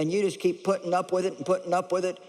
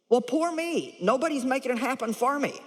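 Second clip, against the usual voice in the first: mock self-pitying whine, a touch higher; 4 semitones higher than usual. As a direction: whimper poor me like a pitiful victim. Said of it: "a self-pitying type".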